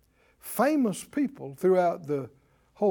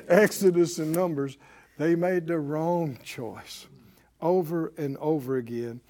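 normal talking voice

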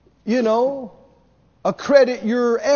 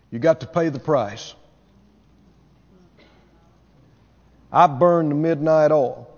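lower, self-satisfied bragging voice; mocking a boastful preacher; 5 semitones lower than usual. Preacher mocking a self-praising minister, lower smug boast. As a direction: brag about your own hard work, lightly mocked. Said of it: "Why would you talk like that?".

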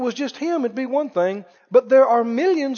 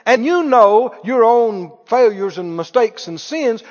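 normal talking voice

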